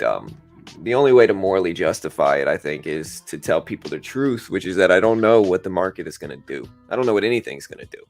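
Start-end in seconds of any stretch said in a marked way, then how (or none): none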